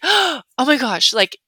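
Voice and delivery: thrilled gut yes; excited yes. Shown as a demonstration. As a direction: gasp and lean into the invite.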